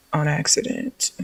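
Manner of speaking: usual speaking voice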